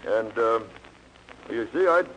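lightly mocked laconic cowboy; Gary Cooper strong silent. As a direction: hold back every word, shy and stiff. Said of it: "like Gary Cooper with that strong, repressed, silent air".

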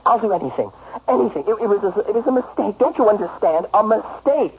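urgent, stammering plea; begging. Acted. Husband pleads with wife over his mistake, begging. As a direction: beg her to forgive a mistake. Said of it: "Stop begging".

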